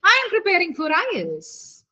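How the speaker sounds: statement tune falling to the end of "I E L T S". Shown as a demonstration. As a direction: start high, let "I E L T S" drop. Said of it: "my tone is falling".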